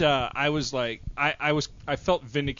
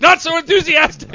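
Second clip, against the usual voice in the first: high mocking; 11 dB louder than usual. Repeated much higher and louder.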